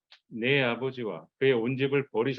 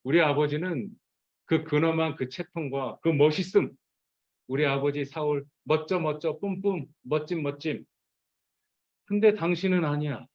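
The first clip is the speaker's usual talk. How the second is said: sarcastic; 3 semitones higher than usual. Retold or imitated. Michal sneering at David, mockingly sarcastic. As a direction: sneer as you praise her father. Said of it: "이렇게 지금 비꼬아서 얘기하는 거예요".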